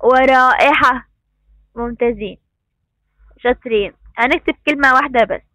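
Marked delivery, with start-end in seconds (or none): 0.0-1.1 "ورائحة" slow, the long ا held before the hamza; slow teacher's demo of the alif in "ورائحة"; long alif madd. Shown as a demonstration. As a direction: draw out the ā in "ورائحة". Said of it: "بها مد بالألف".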